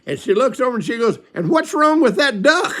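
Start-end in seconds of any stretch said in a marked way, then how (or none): 1.3-2.7 high-pitched, incredulous question, laughing; retold high squawk of disbelief breaking into laughter; mock indignant mom. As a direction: imitate an outraged mother, pitched way up. Mother demands answer about duck.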